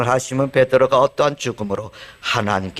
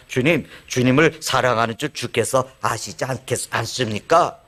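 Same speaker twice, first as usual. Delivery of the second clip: a lightly voiced brash Peter, sure of himself; self-assured retort. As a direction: answer as if the question were silly. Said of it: "그런 톤으로 얘기했을까요?". (자신만만하게 되묻는 말투)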